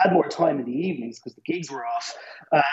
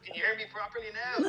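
muffled, distant bad line; like talking from the bottom of a well; 5 semitones higher, 9 dB quieter than usual. Real, not acted. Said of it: "Nah, not really".

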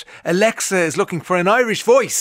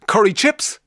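lightly mimicked higher-pitched young voice; mild impression, pitched up; a singer; 6 semitones higher, 3 dB louder, slower than usual. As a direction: answer high, with a lift at the end. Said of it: "That's what he'd say".

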